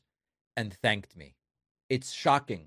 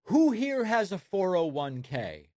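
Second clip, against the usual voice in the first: higher-pitched mock Trump call-out; 7 semitones higher than usual. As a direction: call it out high, lightly imitating a politician. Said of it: "where Trump goes".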